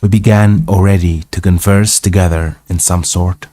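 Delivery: measured read-aloud narration; story narration. A narrator's reading. Reading an old travel tale aloud, story narration.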